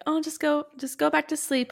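high, gentle coaxing; endeared soothing. Retold or imitated. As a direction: coax a sleep-talker back to bed. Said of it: "it's just cute and endearing".

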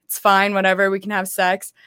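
usual speaking voice

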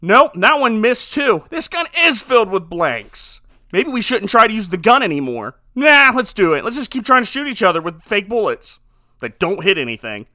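loud, animated comic role-play; emphatic, hammed-up thinking out loud; mock reasoning aloud. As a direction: act out a ridiculous gunfight debate. Acts out absurd gunfight dialogue.

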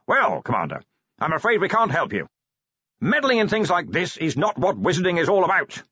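high, emphatic official refusal; wizard Ridcully declaiming. A narrator's reading. Wizard officially refusing to help the commander, high and declamatory.

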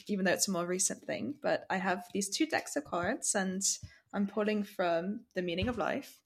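Queen's English podcast host voice; proper London accent. Pretend. Host introducing the cards to listeners, in proper London accent. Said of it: "I'll be from proper London".

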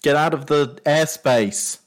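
loud, high angry bellow; shouted order to clear off; booming voice. Acted. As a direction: holler a warning up into the sky. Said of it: "the booming voice goes".

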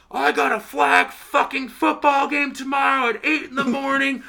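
high, loud mock yell of a furious neighbor; screaming neighbor. Neighbor screaming at loud partiers over the fence, high furious yell. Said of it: "he starts screaming over the fence".

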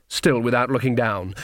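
ordinary delivery

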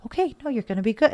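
light, high-pitched mock soothing; retold reassurance. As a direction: imitate a friend hurrying to reassure. Voicing friend reassuring her on phone.

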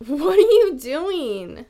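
loud, slow, drawn-out question to the dog; startled owner calling the dog; surprised call to the dog. Real, not acted. Dog walks in during filming.

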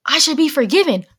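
high mock-whiny apology; mock voice of a person who expects to be forgiven; mocking the apologizer.

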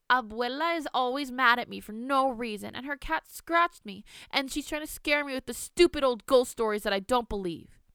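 put-on high, loud whiny child voice; whiny tattling. Girl tattling to her mother on the phone, high whine.

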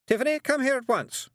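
high, loud summons; shouting. A narrator's reading. Miss Tick orders the girl back, shouting. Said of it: "she shouted".

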